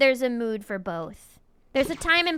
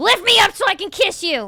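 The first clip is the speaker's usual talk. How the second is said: loud, demanding yell; 7 semitones higher, 6 dB louder than usual. Speaker shows their way of flirting: yelling to be picked up. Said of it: "just yelling at you to pick me up".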